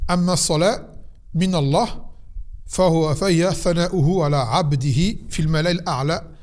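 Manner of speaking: formal Arabic text reading; teacher reciting from a written text; reading commentary aloud. Acted. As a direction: read out the scholar's commentary clearly.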